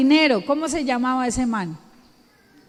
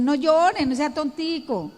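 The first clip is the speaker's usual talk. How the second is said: brushing off a crying child, mildly mocking; a hint of an impatient parent; mock dismissive "no llore"; dismissive scolding; 3 semitones higher than usual. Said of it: "No, eso no es lo que hay que decir".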